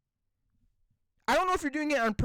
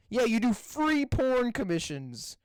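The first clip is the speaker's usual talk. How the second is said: mock misquote; slower than usual. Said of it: "No, furry".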